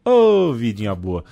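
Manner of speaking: mock envy. Mocking the easy DJ life.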